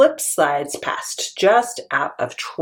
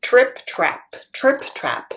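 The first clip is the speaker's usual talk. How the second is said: medium hoof steps; 6 semitones higher, slower than usual. Shown as a demonstration. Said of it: "medium-sized hoofs".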